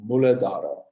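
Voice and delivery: "Muladhara" with the breathy dh; correct pronunciation. Shown as a demonstration. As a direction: model "Muladhara" for the class to repeat. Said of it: "Say it".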